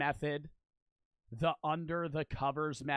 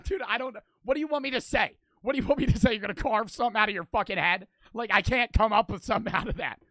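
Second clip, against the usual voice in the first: raised, high-pitched exasperation; exasperated protest; 5 semitones higher, 6 dB louder than usual. Real, not acted. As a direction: push back at chat, loud and pitched up. Exasperated pushback at chat's question.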